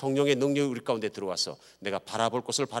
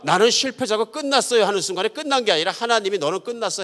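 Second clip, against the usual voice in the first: high, loud pulpit insistence; fervent, raised preaching voice; impassioned preaching; 9 semitones higher, 6 dB louder than usual. Real, not acted. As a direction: drive the point home with rising force. Preacher driving home the point.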